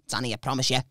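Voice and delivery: low, soft put-on murmur; reassuring friend's voice. Friend promising the teller a safe drive, low soft reassurance.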